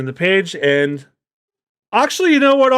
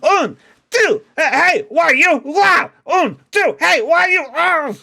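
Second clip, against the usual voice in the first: Mister Two dancing; 13 semitones higher, slower than usual. Acted. Mister Two ballet counting.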